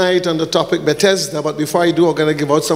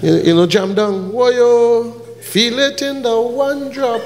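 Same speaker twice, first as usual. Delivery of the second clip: put-on Jamaican accent; 5 semitones higher than usual. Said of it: "you gotta say jam down".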